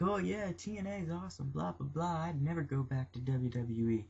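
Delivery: high, airy imitation of a bubbly wrestler; mock gushing. Fan mocking Gail Kim's praise of TNA, high and airy. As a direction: parody her gushing in a high, soft voice.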